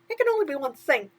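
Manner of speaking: chirpy sidekick asking what's wrong; a hint of cartoon mouse; lightly voiced mouse. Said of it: "Timothy concluded".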